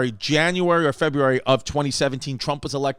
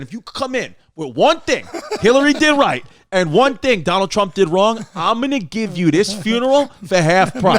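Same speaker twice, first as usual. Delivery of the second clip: laughing quote; 4 semitones higher, 4 dB louder than usual. Retold or imitated. Quoting absurd offer while laughing.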